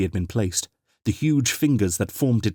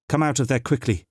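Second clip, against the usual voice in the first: urgent; 5 semitones higher than usual. Acted. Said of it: "she urged".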